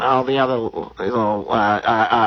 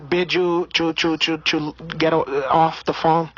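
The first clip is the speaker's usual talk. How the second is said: put-on Brazilian accent; 2 semitones higher than usual. Comedian holding a put-on Brazilian accent.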